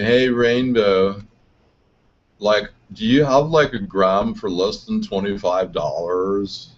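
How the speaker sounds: slow, spaced-out stoner drawl. Retold or imitated. Slow stoner voice, asking the dealer Rainbow for cheap weed. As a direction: ask like a hazy stoner. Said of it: "go down there and say".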